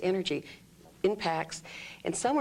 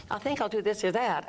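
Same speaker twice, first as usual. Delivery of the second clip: higher, head-placed uncertain voice; 3 semitones higher than usual. Shown as a demonstration. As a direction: keep it up in the throat. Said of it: "I'm up here and I'm still feeling the uncertainty".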